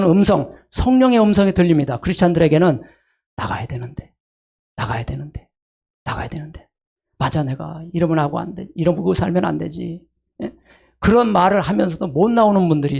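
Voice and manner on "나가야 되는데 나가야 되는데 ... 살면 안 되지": mock hesitant mumble. A wavering believer talking to himself, softly hesitant. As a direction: sigh it out like someone who cannot leave.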